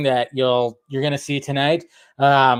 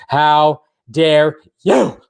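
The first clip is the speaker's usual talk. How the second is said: mock outrage; 5 dB louder, much slower than usual.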